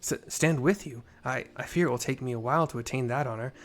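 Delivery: mild flustered soldier; lightly voiced young soldier. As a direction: stammer it out, embarrassed. Gaidalo replies.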